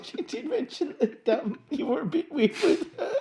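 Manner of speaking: high-pitched teasing through laughter; can barely hold the laugh. Real, not acted.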